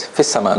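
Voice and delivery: "fis sama" with short i into doubled s; ya dropped. Shown as a demonstration. Teacher showing the everyday reading, ya dropped. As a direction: say "fis sama" lightly, no long vowel. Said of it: "We just say it".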